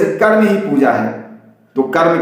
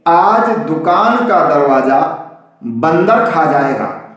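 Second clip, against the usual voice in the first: बंदर said as one word, then खा जाएगा; slow sign reading, बंदर unbroken; misread as बंदर; slower than usual. Shown as a demonstration. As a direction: read it slowly with बंदर run together as monkey. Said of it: "गलती कहाँ हो गई".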